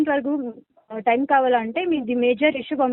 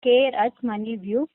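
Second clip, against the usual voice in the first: slow, spelled out for notes; slow dictation; slower than usual. Shown as a demonstration. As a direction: say it slowly so he can write it down. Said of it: "నేను note చేసుకుంటాను".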